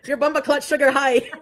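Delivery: put-on laughing through a playful Jamaican accent; mock Jamaican accent. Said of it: "Jamaican one".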